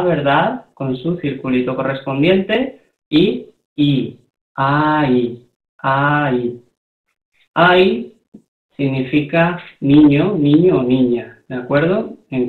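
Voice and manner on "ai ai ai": "ai" said as A gliding into I; Korean word demonstration. Shown as a demonstration. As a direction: repeat "ai" as a separate model word for learners. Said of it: "donde tenemos A". (pronunciar "ai" uniendo A e I, como modelo)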